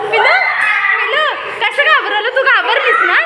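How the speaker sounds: real giggly, playful questioning; amused teasing. Real, not acted. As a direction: tease a little one while laughing. Teasing child after the prank.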